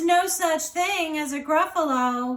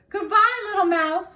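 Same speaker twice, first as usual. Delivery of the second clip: panicked goodbye; 5 semitones higher, 4 dB louder than usual. Acted. Fox flees in panic.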